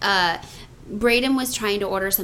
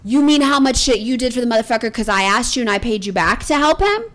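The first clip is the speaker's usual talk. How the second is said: raised, louder telling-off; angry scolding; 3 semitones higher, 5 dB louder than usual. Retold or imitated. Mother chewing out her son on the phone. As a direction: lay into him and send him out.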